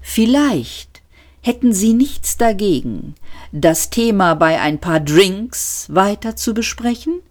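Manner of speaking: a lightly voiced unctuous waiter; polite waiter. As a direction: suggest drinks courteously.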